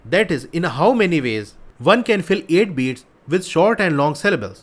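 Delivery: reads each English word out very slowly; deliberate read-aloud of the problem. Shown as a demonstration. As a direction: spell out the question slowly for students.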